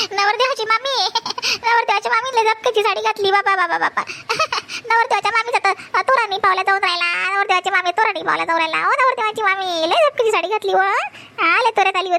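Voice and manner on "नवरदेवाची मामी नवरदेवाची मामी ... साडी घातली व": laughing tease. Acted. Laughing teasing of groom's aunt.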